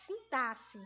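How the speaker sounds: sintaxe with x said as double s; correct pronunciation. Shown as a demonstration. Teacher modelling the word for pupils, sintaxe with an s sound. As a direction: say sintaxe as sin-TA-ssi. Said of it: "fosse a pronúncia de dois S".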